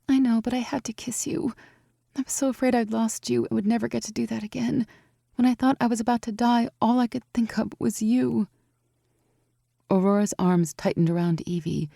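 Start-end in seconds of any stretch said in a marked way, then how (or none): 0.1-8.5 put-on high, anxious young woman; young woman, worried. A narrator's reading. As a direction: fret over her friend. Evie voice.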